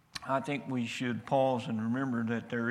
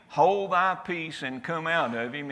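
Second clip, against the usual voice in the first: raised, louder commanding rebuke; forceful rebuke; 4 semitones higher, 5 dB louder than usual. Acted. Jesus rebuking the demon, raised and commanding.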